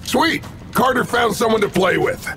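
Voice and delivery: high-pitched, delighted tease; gleeful teasing. Acted. Sam finds Carter with someone to play with, gleeful teasing. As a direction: crow it with mocking glee.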